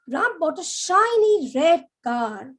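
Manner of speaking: "shiny red" drawn out and lifted; stress on shiny red. Shown as a demonstration. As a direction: savour the words "shiny red". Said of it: "more towards the quality of the car".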